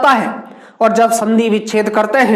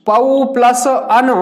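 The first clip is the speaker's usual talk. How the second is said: slow split; much slower than usual. Shown as a demonstration. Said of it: "उसको बाहर निकालकर plus के बाद लिखते हैं".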